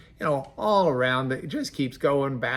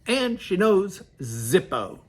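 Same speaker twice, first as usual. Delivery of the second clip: mocking emphasis; 6 semitones higher, 5 dB louder, slower than usual. Shown as a demonstration. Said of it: "that's the Lubbock translation".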